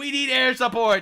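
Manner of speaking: put-on screaming. Acting out Iran calling for help: imitating Iran screaming. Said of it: "Iran screaming".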